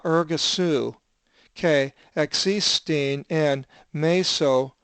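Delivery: slow, careful Greek reading aloud; teacher reading Habakkuk's Greek verse aloud, slowly; slow scripture reading. Acted.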